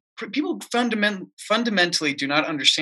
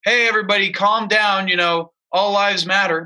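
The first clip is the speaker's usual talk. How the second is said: mock megaphone call; 2 semitones higher, 4 dB louder than usual. On a statue addressing protesters, mock megaphone call. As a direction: call out to an imagined crowd, half-joking. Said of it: "Megaphone and just say".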